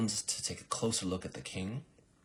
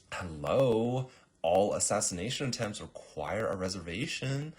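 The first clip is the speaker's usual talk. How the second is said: raised, lightly acted "duh" tone; mock-exasperated explaining; 3 semitones higher, 5 dB louder than usual. Girl to baffled assassin, mildly exasperated explanation. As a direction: point out the obvious rule.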